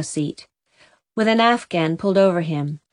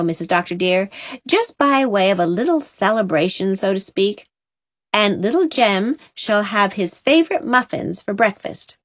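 housekeeper voice. Acted. Susan chatters to the doctor's wife.

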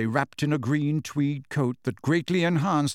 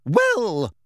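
loud, high, outraged opener; indignant, loud and high; quivering rage; 6 semitones higher, 5 dB louder than usual. A narrator's reading. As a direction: demand an answer in a fury. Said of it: "quivering with rage".

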